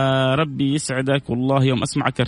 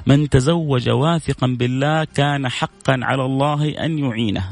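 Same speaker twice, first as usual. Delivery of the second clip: تلاوة متأنية للحديث؛ إلقاء الحديث ببطء ووقار؛ اقرأ الحديث كلمة كلمة بتمهل؛ المذيع يروي حديثا لجمهوره، بإلقاء بطيء ووقور; slower than usual. Shown as a demonstration. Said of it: "بقول لكم حديث".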